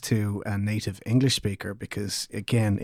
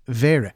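wäre said louder as the key word; stressed wäre; 2 semitones higher, 6 dB louder than usual. Shown as a demonstration. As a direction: punch wäre as you teach it. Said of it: "which is".

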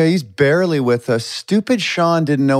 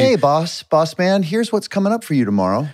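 lightly voiced eager assistant, pitched up; mock assistant; 4 semitones higher than usual. Host mimicking the assistant's morning briefing to the boss, mock assistant. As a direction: play a chummy assistant a little higher. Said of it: "And they say".

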